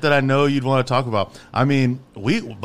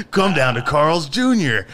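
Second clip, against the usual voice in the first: laughing; 3 semitones higher, 3 dB louder, slower than usual. Acted. Laughing callback to the ad.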